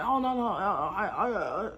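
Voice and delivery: imitating a flustered aunt who stammers with a nervous laugh; mock flustered stammer with a laugh; stumbling over words. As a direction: fumble the words like you got caught. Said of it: "stumbling all over her words".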